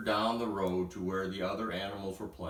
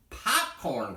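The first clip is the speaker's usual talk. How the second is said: cried out; 4 semitones higher than usual. Acted. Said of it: "cried Dexter".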